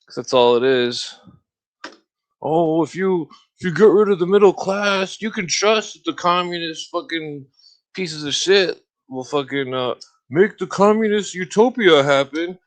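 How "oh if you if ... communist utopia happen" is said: higher, louder sarcastic parody of leftist preaching; mocking commie voice. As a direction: ham up their utopia pitch. Mocking communist talking points.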